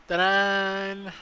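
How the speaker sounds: bright loud reveal. Real, not acted. Streamer to chat, loud showy ta-da. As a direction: present it with a flourish.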